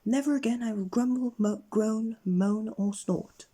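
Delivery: high, loud, slowing at the end; solemn pig promise. Acted. Red-faced pig Grumble vows to the wizard, high and slowing. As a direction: promise earnestly, dragging the last words.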